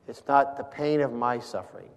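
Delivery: "my" leaned on gently; stress on MY. Shown as a demonstration. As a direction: put the emphasis on "my". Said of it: "it's the difference where you put the emphasis".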